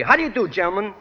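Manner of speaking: Brooklyn job applicant. Retold or imitated. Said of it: "I'd walk in for an interview with a school board and I'd say".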